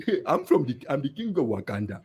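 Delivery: soft, lightly imitated African-prince accent; a hint of a bad movie-royal impression; Eddie Murphy. Mocking his friend's terrible impression, lightly imitated African king. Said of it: "Eddie Murphy goes like".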